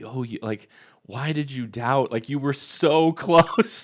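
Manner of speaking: tender, pleading, loving, slow. Rereading Jesus's rebuke to Peter with a really loving tone. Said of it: "just kinda like that plea".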